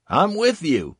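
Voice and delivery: loud, high shouted agreement; shouting. Acted. Corporal agrees under fire.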